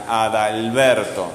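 slow "Adalberto" with a strong, long BER; stress on BER. Shown as a demonstration. Teacher asking pupil to listen, stress on BER in "Adalberto".

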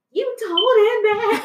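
high, loud, slow, laughing; teary disbelief. Retold or imitated. Quoting her shocked reaction to mom, high laughing disbelief. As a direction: gasp it through laughter. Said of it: "I was just like".

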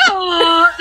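roar attempt. Shown as a demonstration. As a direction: act out the roar as a moan. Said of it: "This is what I think it sounded like".

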